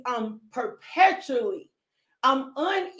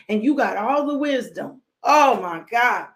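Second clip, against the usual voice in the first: tearful cry; 4 dB louder than usual. Real, not acted. Preacher overcome with emotion.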